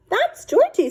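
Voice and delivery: high, loud, proud little voice; eager girl. Acted. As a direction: introduce your pet with glee. Amelia introduces her gecko.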